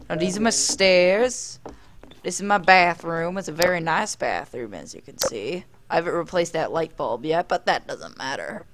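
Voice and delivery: put-on drawled tour-guide accent. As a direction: show guests around in a put-on accent. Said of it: "speaking in this accent".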